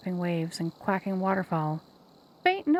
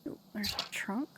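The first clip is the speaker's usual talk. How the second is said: whisper; 9 dB quieter than usual. Real, not acted. Player spots a trunk quietly.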